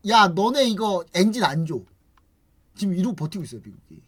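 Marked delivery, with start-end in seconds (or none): 0.1-1.8 mildly irritated refusal; mock annoyance. US irked at Korea, withholding engines, mock annoyance. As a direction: play at being a put-out supplier. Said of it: "미국이 그래서 짜증나가지고".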